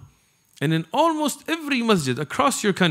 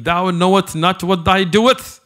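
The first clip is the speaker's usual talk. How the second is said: mock Shakespearean English; 4 dB louder, slower than usual. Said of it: "if I started speaking".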